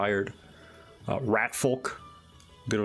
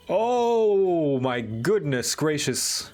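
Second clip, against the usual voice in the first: hoarse sleep deprived hype; 5 semitones higher, 3 dB louder, much slower than usual. Real, not acted. Reacts to fifty gifted subs.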